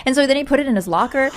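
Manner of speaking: ordinary talk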